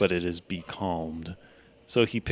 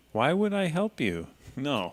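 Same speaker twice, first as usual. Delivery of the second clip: teasing refusal; 7 semitones higher than usual. Acted. Mock betrayal, character joke.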